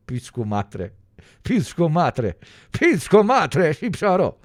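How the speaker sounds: mock-Albanian accent, rising with each repeat. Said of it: "to do the Albanian accent".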